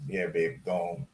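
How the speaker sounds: a sweet, soft nudge to wash first; very nicely. Retold or imitated. Husband softly tells wife to wash her feet, gently. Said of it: "Very nicely".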